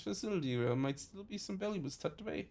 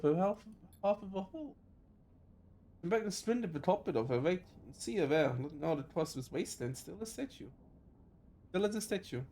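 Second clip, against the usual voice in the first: reading a sad scene to viewers; story narration. Acted. Reads game narration aloud.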